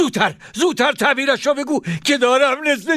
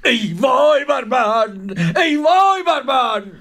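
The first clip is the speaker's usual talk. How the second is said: wailing lament; 3 semitones higher, slower than usual. Acted. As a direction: cry out ای وای بر من in despair. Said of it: "با افسوس گفت".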